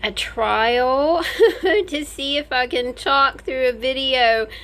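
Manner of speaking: speaking with stitches in mouth; slightly slurred post-surgery speech; after wisdom teeth. Real, not acted. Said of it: "I've got stitches in my mouth".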